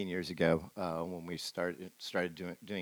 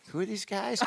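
quoting his wife high while laughing; laughing quote; 13 semitones higher than usual. Retold or imitated. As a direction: laugh through the wife's puzzled question. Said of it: "And Sherry goes".

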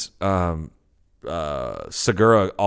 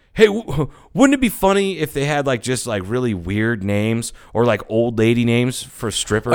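imitating Bert; 2 semitones higher than usual. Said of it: "Bert goes".

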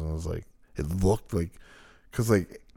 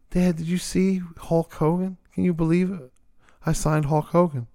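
higher, eager daughter voice; mock excited daughter; 9 semitones higher than usual. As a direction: play the gushing daughter showing off to dad. Imitating Dixie excited to dad.

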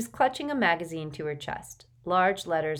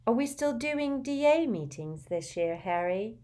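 Luna's voice; 6 semitones higher than usual. A narrator's reading. Luna asks her question.

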